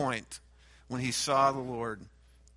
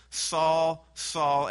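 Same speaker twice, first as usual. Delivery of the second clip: stern, raised calling of the name; intense rebuke; 2 semitones higher, 5 dB louder than usual. Acted. The Lord rebuking Saul for persecution, loud stern call. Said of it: "as an intense rebuke".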